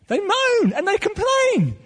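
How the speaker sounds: high, slow, whining moan; a hammed-up whiny groan; mock moaning whine. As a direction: drag it out like a moaning complainer. Preacher mimics moaning Israelites.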